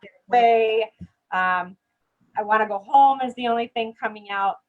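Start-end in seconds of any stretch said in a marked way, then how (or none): 0.0-0.9 mock yell. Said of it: "I'm going to start yelling".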